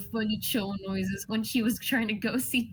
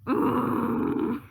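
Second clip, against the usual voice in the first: sob; 4 semitones higher, 6 dB louder than usual. Acted. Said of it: "Zapiel just like".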